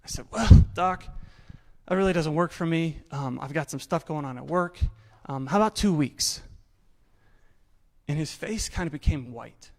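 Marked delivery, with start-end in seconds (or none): 0.3-6.4 cocky. Retold or imitated. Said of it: "was quite cocky".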